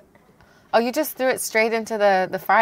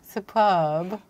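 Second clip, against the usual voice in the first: put-on English accent; 3 semitones lower, 3 dB quieter than usual. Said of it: "my English accent is superb".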